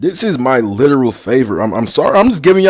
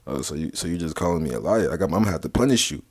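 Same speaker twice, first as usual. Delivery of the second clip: trolling; 8 semitones lower, 12 dB quieter, faster than usual. Acted. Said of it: "on some trolling shit".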